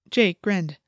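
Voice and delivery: plain reading voice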